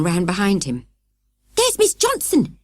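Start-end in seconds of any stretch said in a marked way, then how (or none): 1.5-2.6 high, slow calling out; shout. A narrator's reading. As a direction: shout it out of the window. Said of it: "he shouted".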